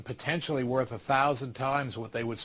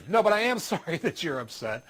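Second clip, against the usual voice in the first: takes it back through a laugh; a chuckle on am sorry; 4 semitones higher than usual. Real, not acted. Speaker retracts the joke to the audience, laughing.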